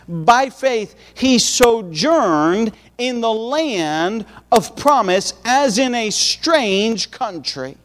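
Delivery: slow, solemn Bible reading; scripture reading. Acted. Preacher reading verse nine aloud, slow and solemn. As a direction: read it out slowly, giving it weight.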